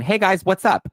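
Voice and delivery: high, loud, breezy mock greeting; breezy Donna. Co-host imitating Donna's breezy text, high and chirpy. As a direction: chirp it like nothing happened.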